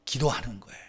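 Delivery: dropped to a whisper. Acted. Preacher whispering about prayer to the congregation. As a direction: whisper the key word.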